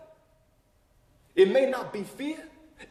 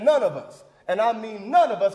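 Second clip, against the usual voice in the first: "none" hit louder both times; stress on NONE; 4 dB louder than usual. Acted. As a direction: punch NONE hard, then drive it home. Emphatic repetition in a speech.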